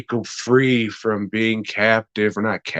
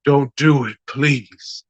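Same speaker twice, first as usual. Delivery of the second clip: pleading friend; 5 semitones higher, slower than usual. Retold or imitated. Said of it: "his friend come in and says".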